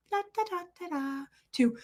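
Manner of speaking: soft, high "da da da" babble; calm chatter. Retold or imitated. Showing the woman at level one before screaming, softly calm babble. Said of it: "be totally calm".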